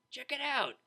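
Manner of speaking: high mumble through a mouthful; mumbled around a flower. A narrator's reading. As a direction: talk around a stem held in the teeth. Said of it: "the unicorn mumbled around her prize".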